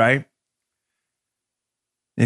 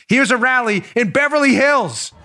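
excited; 6 semitones higher than usual. Real, not acted. Hyped describing packed rally.

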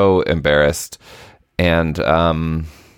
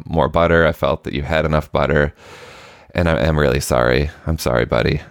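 gentle apology; 2 semitones lower than usual. Retold or imitated. Dad apologizing softly to son.

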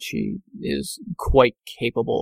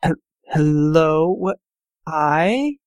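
startled librarian; 3 semitones higher, slower than usual. Acted.

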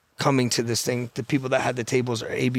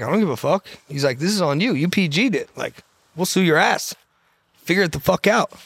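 retold hard-nosed refusal, pitched higher; dismissive threat; 4 semitones higher than usual. Landlord to panicking tenant who can't pay, dismissive threat. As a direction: lay down the law as the unbothered other party.

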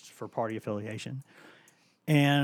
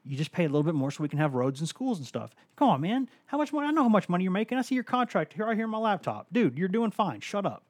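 higher, louder exasperated pleading; retelling his own argument; 6 semitones higher, 3 dB louder than usual. Retold or imitated. Reporter arguing taxes with the coach, high exasperated plea. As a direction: push back hard, half laughing. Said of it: "and then I said".

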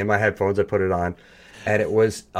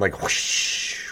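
whoosh sound effect; 3 dB quieter than usual. Shown as a demonstration. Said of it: "with a little radio sound".

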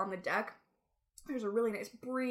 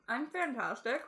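talking through a mouthful of snacks; crunching chips; 3 semitones higher than usual. Real, not acted. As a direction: say it while chewing party mix. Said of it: "Please excuse my crunching".

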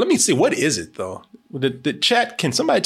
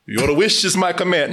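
genie; 3 semitones higher than usual. Pretend. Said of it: "did Corey find a genie".

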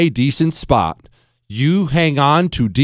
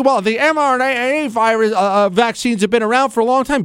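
mock pro-vaccine voice; 8 semitones higher than usual. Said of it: "And don't do this thing".

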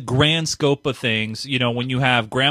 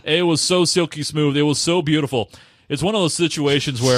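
silky hammed-up DJ; smooth radio voice. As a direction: lay it on thick like a radio host. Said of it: "doing that voice the whole time".

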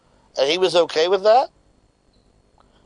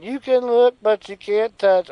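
mock sultry taunt; 5 semitones higher, 3 dB louder, slower than usual. Quoting the Bellas' theme song.

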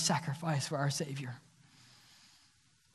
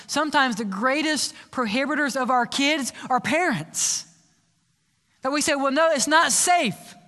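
fervent preaching. Acted. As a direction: preach it to the church at full force. Preaching the altar call.

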